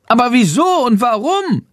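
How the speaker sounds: high, anxious bat creature voice; a small worried bat asking why; little bat voice. A narrator's reading. Bat pleads with Jendrik for reasons, high and anxious.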